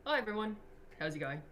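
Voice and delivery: rusty Australian accent, voice dropped. Shown as a demonstration. Girl passing as a boy on game comms, Australian accent. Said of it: "so I'd be like".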